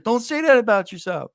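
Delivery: imitating mom. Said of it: "She's like".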